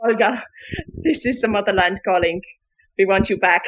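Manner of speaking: prank caller's put-on Russian accent; solemn mock-Russian phone voice. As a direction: intone it with a fake Russian accent. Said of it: "who had a Russian accent".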